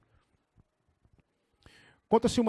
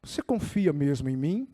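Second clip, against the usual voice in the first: deep, calm voice of God; low, composed divine voice; voice from above; 7 semitones lower than usual. Acted. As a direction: answer low and unhurried, like the Lord himself. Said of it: "o Senhor falou para ele assim".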